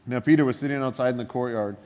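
quick reading-aloud voice for the verse; scripture reading. Shown as a demonstration. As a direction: read the verse briskly. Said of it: "This is verse sixty-nine".

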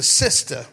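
"sister" with the final r dropped, drawn out; "sister" ending in an open "ah"; slangy "sister". Shown as a demonstration. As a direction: say "sister" slowly as "sistah". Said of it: "She's not just a sister".

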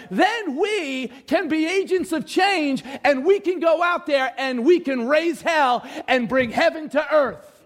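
preacher building up, stretching the key words; impassioned preaching. Real, not acted. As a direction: drive it home to the congregation, high and insistent. Preaches God's message with force.

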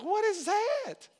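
high, slow, loud cry of amazement; loud stunned question, high and slow; astonished exclaim. Retold or imitated. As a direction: gape in disbelief, drawn out. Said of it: "Be like".

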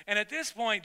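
usual speaking voice

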